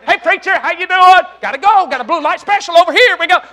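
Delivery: high, loud acted greeting on the move; excited shopper. Older lady hails her preacher while bargain hunting, excited. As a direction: call it out mid-march through the mall.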